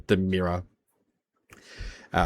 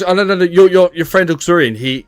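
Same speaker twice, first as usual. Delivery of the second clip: high, louder babbling reassurance; Bong's voice; 5 semitones higher, 5 dB louder, much faster than usual. Acted. Bong nervously assuring Kidra it's okay. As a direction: talk fast over the worry. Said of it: "he goes".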